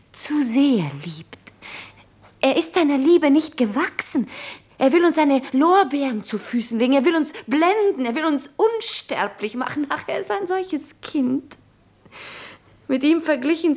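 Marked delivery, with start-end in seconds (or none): 2.4-11.6 higher, mounting fervent insistence; impassioned exasperation. Acted. Wife explaining her husband's love to Jura, impassioned. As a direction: build it up point by point in a raised pitch.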